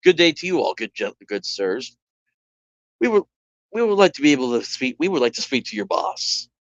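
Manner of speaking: put-on light Italian accent, polite and formal; a hint of an Italian gentleman asking for the boss. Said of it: "He's Italian".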